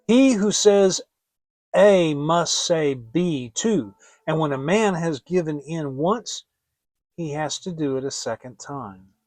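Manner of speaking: reproaching. Acted. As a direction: lecture him like a fool. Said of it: "scolded and reproached him".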